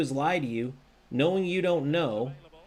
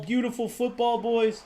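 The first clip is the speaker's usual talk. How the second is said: excited beautiful football; 9 semitones higher than usual. Real, not acted. Celebrating a nice goal.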